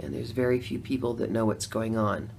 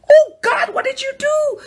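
shrill high-pitched panicked wail, much louder; mock horrified cry; 11 dB louder than usual. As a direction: cry out in hammed-up horror at yourself. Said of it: "I went".

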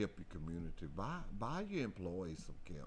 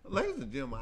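announcer call; 6 semitones higher, 6 dB louder, faster than usual. Real, not acted. Radio host announcing.

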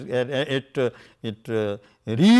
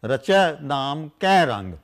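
recited scripture line; slower than usual. Shown as a demonstration. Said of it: "earlier is".

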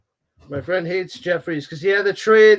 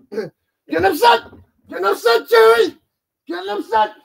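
mock taunt; 13 semitones higher, 5 dB louder than usual.

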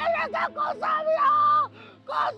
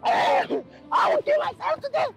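wailing. Acted. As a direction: cry out the lost lover's name, howling. Acted heartbroken wailing, threatening suicide.

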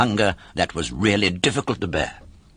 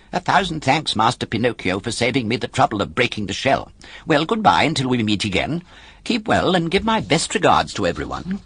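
polite chicken; 3 semitones higher than usual. Acted. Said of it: "a polite curtsy and said".

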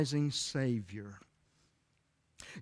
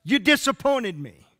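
higher, louder, slow aching plea; hurt complaint to God; 6 semitones higher, 4 dB louder, slower than usual. Acted. Believer voicing disappointment to God, aching plea. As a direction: cry out like someone let down. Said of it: "where you were just saying it".

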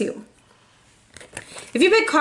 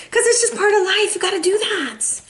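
sassy aside; 8 semitones higher than usual. Acted. Tarot reader aside, high put-on voice.

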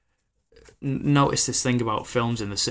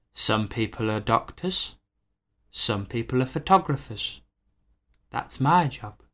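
mock suave photographer; slower than usual. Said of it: "And he goes".

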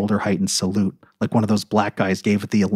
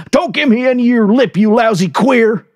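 hostile cook; 13 semitones higher, 5 dB louder than usual. A narrator's reading. Cook insulting the narrator, contemptuous. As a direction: spit the insult at him. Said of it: "he said".

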